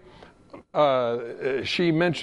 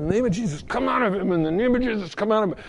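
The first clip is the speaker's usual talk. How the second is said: a firm retold rebuke, a little raised; commanding prayer; 4 semitones higher, faster than usual. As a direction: cast it out, steady and insistent. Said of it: "and I just said".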